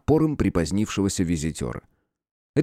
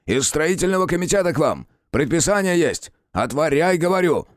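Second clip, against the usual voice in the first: higher, insistent official demand; confident and commanding; 7 semitones higher than usual. Acted. Committee man demands entry, sure and imperious. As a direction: lay down the order like you own the place. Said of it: "звучал так уверенно и повелительно".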